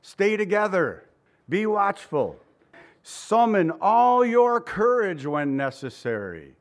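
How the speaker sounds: rally the troops, slowing on the last order; a preacher lightly playing a commander; commander-in-chief. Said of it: "like a commander-in-chief".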